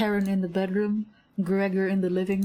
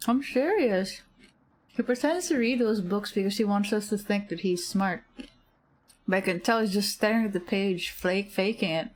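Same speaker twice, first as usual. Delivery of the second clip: mouth full. Real, not acted. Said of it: "with M and M's in my mouth".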